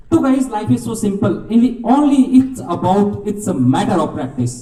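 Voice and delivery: slow, weighty delivery of the lesson; slow emphatic moral. Real, not acted. Speaker gives the students the story's moral, slow and weighty. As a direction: lay the moral down word by word. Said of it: "moral said slowly".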